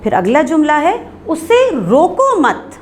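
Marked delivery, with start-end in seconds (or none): 1.3-2.7 slow, raised "उसे रोको मत" run as one group; pause after मत. Shown as a demonstration. Teacher reading the next example sentence, pause after मत. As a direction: join मत onto रोको, then stop. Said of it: "सकते का निशान मत के बाद".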